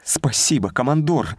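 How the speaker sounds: bright, high and eager; light up with joy as you thank him; beaming thanks. Acted. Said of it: "просияла девушка".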